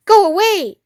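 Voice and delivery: high, loud, sharp rat voice; high squeaky rat snapping go away. Acted. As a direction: snap at the intruders like a cornered rat. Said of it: "it snapped".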